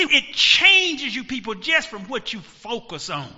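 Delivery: normal talking voice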